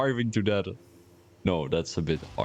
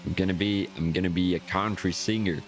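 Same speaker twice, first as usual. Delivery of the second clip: put-on American accent. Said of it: "I'm gonna talk like this".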